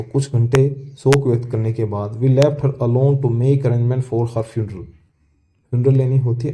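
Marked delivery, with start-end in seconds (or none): 2.1-4.8 very slow, word by word; slow reading. Shown as a demonstration. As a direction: read the line slowly for the class. Teacher reads textbook passage aloud. (धीमे-धीमे पढ़कर सुनाना)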